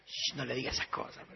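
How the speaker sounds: hushed whisper to a friend. Acted. Friend whispers to hush the mocking boys. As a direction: whisper it so he won't hear.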